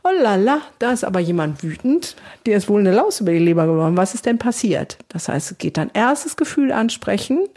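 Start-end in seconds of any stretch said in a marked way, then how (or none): 0.0-5.0 lightly voiced sympathy; empathetic soothing. Carer greeting an angry child home from school, gently sympathetic. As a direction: meet the child's anger with kind interest. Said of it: "Affekt zu regulieren und zu sagen".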